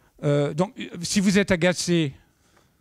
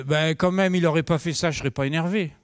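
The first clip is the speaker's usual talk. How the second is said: lightly hammed-up blaming tone; mock indignant excuse; faster than usual. Imitating people who blame others, mild indignation. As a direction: play the indignant excuse-maker. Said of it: "les personnes qui me disent".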